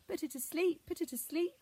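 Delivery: high, loud call from far off. Acted. A fairy voice calling from the tailings, high and loud. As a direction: call it across the hillside. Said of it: "called a voice from a pyramid".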